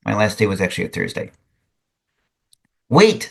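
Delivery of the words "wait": shouting. A narrator's reading. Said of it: "someone shouted".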